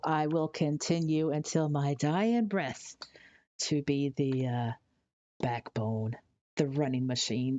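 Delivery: dramatic whisper. Pretend. Mock-heroic vow about Wilson.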